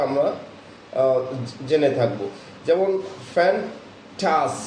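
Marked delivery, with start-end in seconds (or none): 3.3-4.5 ফ্যান্টাস said slowly, leaning on the ঠাস part; stress on ঠাস. Shown as a demonstration. Teacher demonstrating word stress, drawn out slowly. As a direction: drag out ফ্যান্টাস and press its second syllable. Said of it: "একটু জোরে উচ্চারণ বা বাড়তি চাপ দিয়ে".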